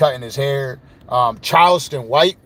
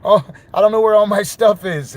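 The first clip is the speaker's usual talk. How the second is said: lightly hammed-up panicking friend; mock panic; 6 semitones higher than usual. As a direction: play a man who just lost everything. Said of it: "then he started panicking".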